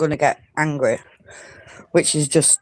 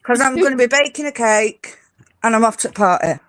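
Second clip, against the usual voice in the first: higher-pitched British accent showpiece; British accent demo; 5 semitones higher than usual. Shown as a demonstration. Retrying the phrase for the host, British accent demo. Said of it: "say you're, you're, you're taking it".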